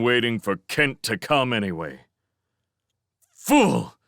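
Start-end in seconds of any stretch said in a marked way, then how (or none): 3.3-4.0 disgusted. A narrator's reading. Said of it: "he said again".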